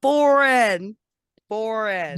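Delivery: BORN drawn out slowly; careful pronunciation. Shown as a demonstration. Questioned on saying born, slow careful pronunciation. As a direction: stretch Born out, sounding it carefully. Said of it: "you're questioning me".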